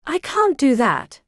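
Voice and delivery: quavering and scared; trembling voice. A narrator's reading. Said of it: "said the woman with a trembling voice".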